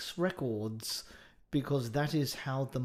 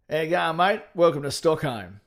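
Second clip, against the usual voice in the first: put-on louder, hearty Australian accent; 2 semitones higher, 5 dB louder than usual. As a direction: greet them in a bold Aussie accent. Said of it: "Brian Brown as a, which part of Sweden".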